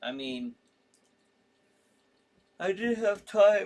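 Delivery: words drawn out through a yawn. A host who just got up, apologizing mid-sentence, yawning. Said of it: "I'm sorry, I'm yawning".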